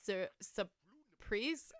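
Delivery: "surprise" slowly tried as "suh-prise"; SURPRISE without the R. Shown as a demonstration. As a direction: feel out "surprise" slowly, first R dropped. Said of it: "we don't really pronounce the R's".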